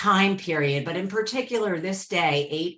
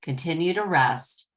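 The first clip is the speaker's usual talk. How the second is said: guided meditation. Acted. Host guides the group to settle in, guided meditation. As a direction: ease them inward, drawing out each phrase.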